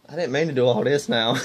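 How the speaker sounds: laughing. Retold or imitated. Laughing at church folks' reaction.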